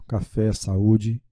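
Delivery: café with open é, saúde with stressed ú; open vowels. Shown as a demonstration. Teacher showing acute accents, café and saúde accented clearly. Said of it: "indica a vogal com som aberto".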